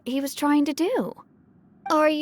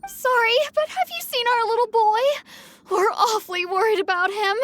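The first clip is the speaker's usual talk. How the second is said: higher, anxious plea on the edge of tears; worried parent; 6 semitones higher than usual. Acted. Mother asking the rescuer about her missing boy, anxious and close to tears. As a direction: ask for help with a catch of worry in the throat.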